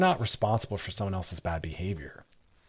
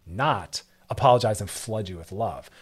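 ordinary talk

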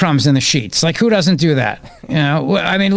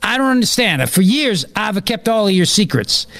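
higher, put-on Italian accent; mock Italian accent; 4 semitones higher than usual. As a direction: plead like a hammed-up Italian. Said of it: "The Italian one, I barely get away with that".

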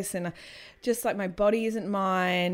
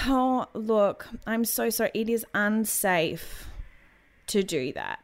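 patronising midwife; slower than usual. Retold or imitated. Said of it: "like it was a teaching moment".

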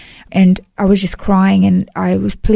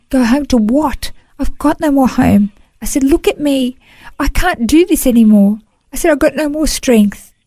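retold despairing plea; 6 semitones higher than usual. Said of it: "and I, I said".

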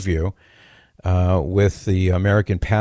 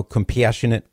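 compassionate with extra Chicago vowels; Chicago accent; 3 semitones higher than usual. Shown as a demonstration. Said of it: "as they say in Chicago".

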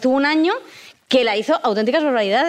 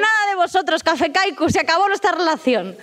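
mock breakup; 5 semitones higher than usual.

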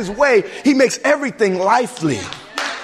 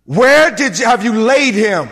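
a livid question, pushed out hard; angry demand; 5 dB louder than usual. Retold or imitated. Preacher voicing an angry Jesus at the tomb, loud and sharp. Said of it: "And he was angry, livid".

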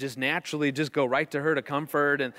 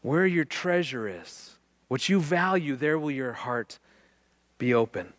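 slow scripture reprise. Shown as a demonstration. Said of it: "that's what he's doing".

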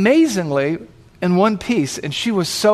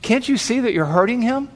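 higher-pitched, indignant challenge without shouting; a little angry; 5 semitones higher than usual. Acted. Bystander confronting the paramedic over the biker, a little angry. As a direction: accuse her, mildly angry. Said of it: "he seemed a little bit angry".

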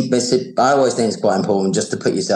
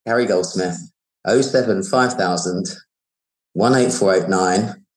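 slow, clear dictation of a number; dictating slowly; 3 semitones lower than usual. Shown as a demonstration. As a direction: spell it out slowly for writing down. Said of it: "I'll go slower".

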